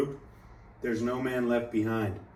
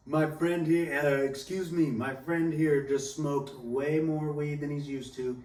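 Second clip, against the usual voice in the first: higher-pitched voice approaching strangers; imitated polite appeal; 4 semitones higher than usual. Friend asking a random couple for tips, polite appeal. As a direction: act out a friend politely flagging people down.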